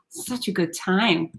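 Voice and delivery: sigh, then a slow, soft, dry "such a good time"; deadpan sarcasm after a sigh; weary sarcasm. Real, not acted. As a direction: let it sink in with a tired sigh. Sighs after grim statistics.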